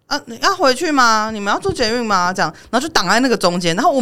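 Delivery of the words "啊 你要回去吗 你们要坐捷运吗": 学挡路的人，音调偏高，犹豫不决地问来问去; 故意学人家在电扶梯上磨蹭、拖拖拉拉地问; mocking dithering strangers. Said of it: "就说什么". (嘲讽地学挡路人的犹豫语气)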